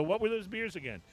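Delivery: a hammed-up, half-hearted Australian accent; mock Aussie twang, not quite landing; bad Australian accent. Host teasing his co-host about Aussie beers, bad Australian accent. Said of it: "That's a really bad Australian accent".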